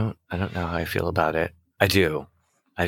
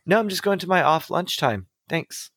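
fake polite; 8 semitones higher than usual. Retold own refusal.

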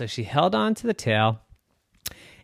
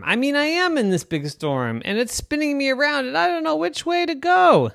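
put-on flustered girl voice; 8 semitones higher, 6 dB louder than usual. Scared girl explains.

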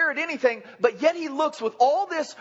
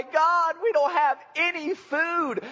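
whining people; 5 semitones higher, slower than usual. Retold or imitated. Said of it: "they begin to cry".

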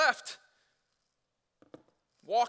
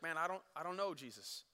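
much softer, lower, fading into nothing; despairing murmur; 3 semitones lower, 9 dB quieter than usual. Retold or imitated. Preacher voicing a doubter confessing to Jesus, soft and lost. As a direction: let it die away in hopelessness.

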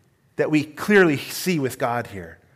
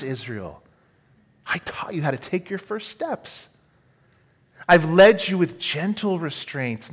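tender; 2 semitones higher than usual. Acted. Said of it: "God speaks so tenderly here".

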